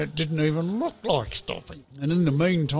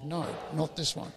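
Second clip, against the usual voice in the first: little inner voice; 7 dB quieter than usual. Retold or imitated. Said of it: "a little voice said".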